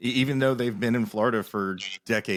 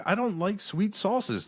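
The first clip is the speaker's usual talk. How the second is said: higher, slow and emphatic; insistent; 9 semitones higher, slower than usual. Retold or imitated. Answering Texans about barbecue, slow, higher, insisting. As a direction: spell it out slowly for them. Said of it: "I'm like".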